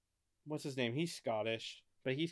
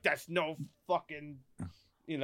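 mock Scottish accent. Host imagining how Scots would object, mock Scottish accent. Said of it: "I'm sure Scots were like".

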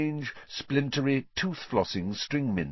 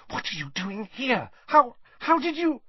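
put-on high, flustered girlish voice; stammering in disbelief; startled. A narrator's reading. Hermione demanding how Harry got there, startled.

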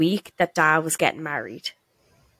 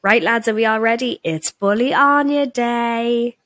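mock boss; 5 semitones higher than usual. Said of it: "She used to come in every morning and go".

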